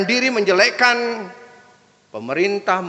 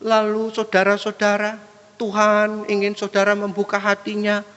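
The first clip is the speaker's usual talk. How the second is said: puppet-like preacher; 4 semitones higher than usual. Retold or imitated. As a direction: imitate a monotone puppet-like preacher. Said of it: "wayang kok". (meniru pengkhotbah kaku seperti wayang)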